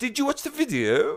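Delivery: goofy put-on voice, very high and loud. Asking someone a question in a silly put-on voice. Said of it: "I like asking that question in that silly voice".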